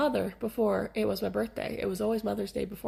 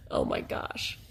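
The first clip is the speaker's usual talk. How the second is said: breathy gasp; 4 dB quieter, slower than usual. Retold or imitated. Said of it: "I'm like".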